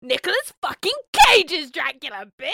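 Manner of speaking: loud, high, triumphant reply; hammed-up excited exclamation; emphatic retold outburst. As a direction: announce it like huge news. Retold excited answer to mum.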